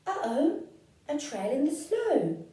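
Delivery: high, loud little gasp of alarm; surprised child. Acted. Gruffalo's child finds a trail in the snow, high and startled. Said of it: "child finds trail".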